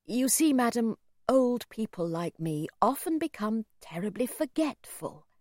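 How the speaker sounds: lightly voiced old gentleman, apologetic and courteous; a mild, well-spoken plea for help; polite old man. Old man admits his scrape to a stranger, lightly voiced and polite.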